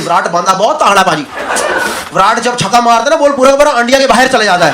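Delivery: put-on fast Punjabi-accented cricket commentary; light Urdu Punjabi accent, rushed. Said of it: "in his Urdu Punjabi accent".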